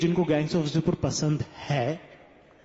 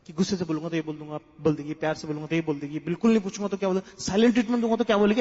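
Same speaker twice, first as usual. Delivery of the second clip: rapid run-through; 2 semitones lower, faster than usual. Retold or imitated. Rattles off her prepared answers.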